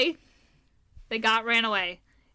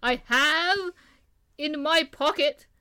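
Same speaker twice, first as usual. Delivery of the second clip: put-on Jacques Clouseau accent; 3 semitones higher than usual. Quoting Pink Panther to show own accent, mock Clouseau accent. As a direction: put on a bumbling movie-Frenchman accent. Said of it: "Jacques Clouseau".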